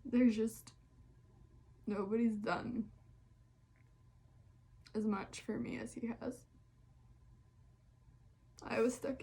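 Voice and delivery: real emotion, halting with long pauses; choked up a little, gathering yourself between phrases; getting emotional. Real, not acted. Talking about a best friend's support, getting emotional. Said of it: "I'm, like, getting emotional".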